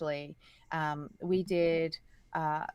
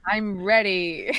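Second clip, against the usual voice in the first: excited; 4 semitones higher, 12 dB louder, slower than usual. Real, not acted. Eager reply to supervillain wish.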